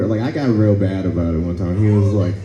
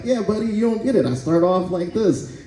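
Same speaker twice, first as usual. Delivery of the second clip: przekonywanie kumpla; 10 semitones higher, 4 dB quieter than usual. Acted. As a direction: plead your case in a raised, lighter pitch. Acts himself defending his routine.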